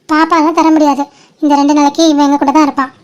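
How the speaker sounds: firm, unbending refusal; mildly angry, authoritative statement; bossy and stern. Acted. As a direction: lay down the law about keeping the baby. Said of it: "என்ன அதிகாரமா கோவமா சொல்லிட்டு இருக்க?".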